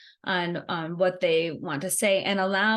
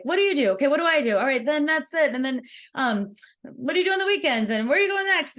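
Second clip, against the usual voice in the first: rapid-fire small talk; 5 semitones higher, faster than usual. Retold or imitated. Mocking scattered networking chatter.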